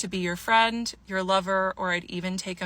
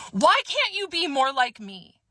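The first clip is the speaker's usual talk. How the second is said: exasperated retold outburst, pitched up and falling at the end; blurted retort; 5 semitones higher than usual. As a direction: blurt it out as his mock complaint. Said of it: "He blurts out".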